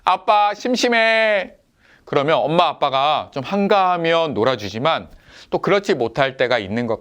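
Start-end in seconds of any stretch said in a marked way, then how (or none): 0.0-1.5 put-on higher, whiny child drawing out the last word slowly; lightly voiced bored child pleading; bored little kid. Younger son begs mom and dad to play, whining. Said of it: "그래서 이렇게 얘기해요".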